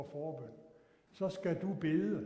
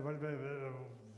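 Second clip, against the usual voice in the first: astonished stammer; 4 semitones lower, 5 dB quieter, much slower than usual. Retold or imitated. Stunned stammer.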